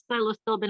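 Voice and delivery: "psilocybin" garbled as sigh-lo-STILL-bin; unsure pronunciation. Real, not acted. Guest unsure of the drug name, saying "psilocybin" as sigh-lo-still-bin. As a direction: stumble through "psilocybin" with an extra t and l. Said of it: "not sure how to pronounce that either".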